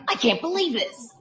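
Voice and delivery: a touch of glum dismay; mild upset disbelief; dejected disbelief. Retold or imitated. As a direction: mutter it like a let-down owner. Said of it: "back to him".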